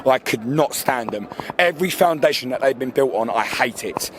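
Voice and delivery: low, venomous seething; furious but not shouted; real fury. Real, not acted. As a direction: spit it out with hatred, held down in pitch. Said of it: "I am furious".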